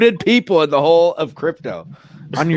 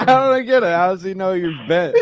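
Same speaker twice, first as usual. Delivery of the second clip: laughing; 3 semitones higher than usual. Real, not acted. Laughing at crude joke.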